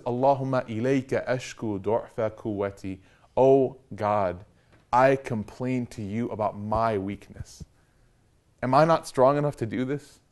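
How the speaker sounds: quiet, pleading prayer, slowed down; humble soft prayer. Retold or imitated. Prophet pleading to God, softly and humbly. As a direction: lay the weakness before God gently.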